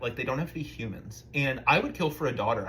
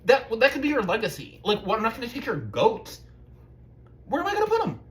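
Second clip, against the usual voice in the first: whiny pleading; 9 semitones higher than usual. Retold or imitated. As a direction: beg like a whining kid.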